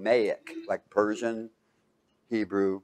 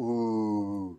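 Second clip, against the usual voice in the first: demo ooh; 3 semitones lower, 9 dB quieter than usual. Shown as a demonstration. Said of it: "everybody go".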